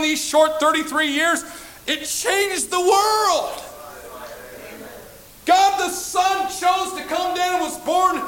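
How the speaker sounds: slow, ringing pulpit proclamation; forceful preaching. Real, not acted. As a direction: drive each phrase home to the congregation. Preaches the climax at full force.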